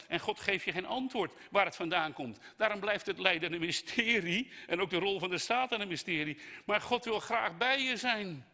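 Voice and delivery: loud, high proclamation; impassioned preaching. Real, not acted. Preacher proclaiming God wants to be near, fervent. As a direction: drive the point home to the congregation.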